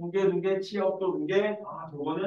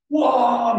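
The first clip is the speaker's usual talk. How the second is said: loud, high "와!" of amazement; excited gasp of awe; 6 semitones higher, 9 dB louder than usual. Retold or imitated. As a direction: gasp "와!" at a star. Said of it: "그냥 갑자기 딱 이래". (스타를 보고 크게 높이 "와!" 감탄)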